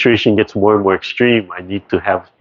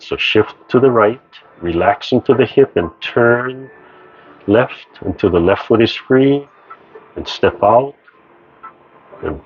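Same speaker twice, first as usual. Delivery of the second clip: calm, measured movement instructions; serene tai chi cues. Acted. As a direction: guide the class gently through each move. Guides tai chi moves.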